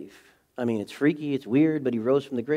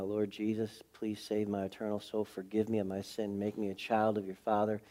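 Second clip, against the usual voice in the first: soft, slightly lowered plea; quiet prayer; 2 semitones lower, 6 dB quieter than usual. Retold or imitated. Seventeen-year-old praying for salvation, hushed plea. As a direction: pray it quietly and simply. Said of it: "I said the best way I knew how".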